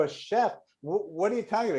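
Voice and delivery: high-pitched retold disbelief; incredulous. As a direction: question it in astonishment. Retells his disbelief at the claim.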